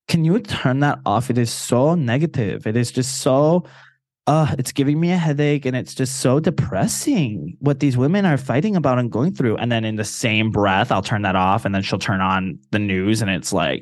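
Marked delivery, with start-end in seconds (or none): 0.1-9.5 lightly voiced Puerto Rican mom; a touch of exasperated Puerto Rican mom; mom's Puerto Rican accent. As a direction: imitate a complaining Puerto Rican mother. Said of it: "My mom's got a Puerto Rican accent".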